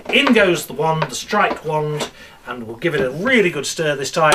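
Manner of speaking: put-on lively magician patter for children; kids party magician. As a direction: play to a room of kids.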